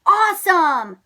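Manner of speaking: high, loud cry of delight; excited cry. Acted. Max thrilled by the treehouse idea, excited. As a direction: exclaim it with delight. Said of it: "cried Max".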